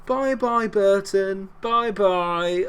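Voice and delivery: a high, sing-song mocking farewell; taunting goodbye. Real, not acted. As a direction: wave the rival off cheekily. Taunting the rival team.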